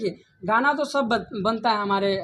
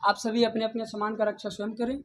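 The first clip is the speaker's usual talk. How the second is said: over the intercom. Shown as a demonstration. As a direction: call it out like a station announcement, slowing at the end. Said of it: "dialogue हो जाए तो like".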